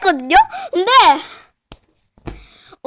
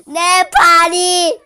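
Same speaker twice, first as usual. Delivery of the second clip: crying while talking; 4 dB louder, slower than usual. Real, not acted. Crying about her kicked foot.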